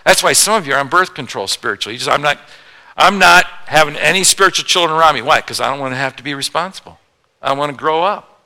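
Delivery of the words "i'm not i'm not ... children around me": mock refusal. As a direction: mimic a stubborn believer saying no. Mocking reluctant believers.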